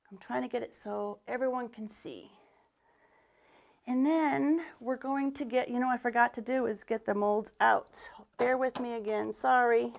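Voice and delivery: slightly winded while talking; breathless between phrases; out of breath. Real, not acted. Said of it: "I get so out of breath so easy".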